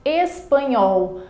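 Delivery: Espanhol said slowly, syllable by syllable; teacher stretching out Espanhol for the class; slow example word. Shown as a demonstration. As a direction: pronounce Espanhol slowly, each syllable clear. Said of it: "a mesma coisa".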